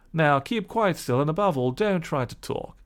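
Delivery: gentleman telling the washerwoman to rest; gentleman's instruction. Acted. Gentleman voiced in story.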